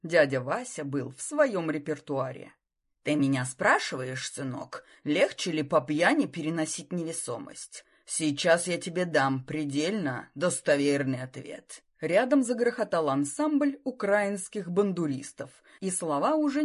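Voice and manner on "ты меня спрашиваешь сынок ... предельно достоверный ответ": put-on lower, lisping old uncle voice. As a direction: lisp it like a tipsy uncle. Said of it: "знакомый шепелявый голос".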